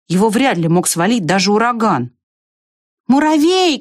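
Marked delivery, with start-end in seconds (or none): 3.1-3.8 calling out. A narrator's reading. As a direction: call across the fence. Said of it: "крикнула Белка".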